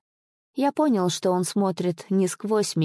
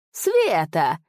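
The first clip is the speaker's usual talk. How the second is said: mocking exclamation. Spirit taunting the master with his own word, scornful exclaim. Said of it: "пуще прежнего рассмеялся голос".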